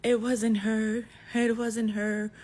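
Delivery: high, loud, slow tearful plea; crying daughter. Retold or imitated. Crying daughter tells her father she got the wrong person, tearful high plea. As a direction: imitate the crying daughter admitting the mistake. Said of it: "finally she's like".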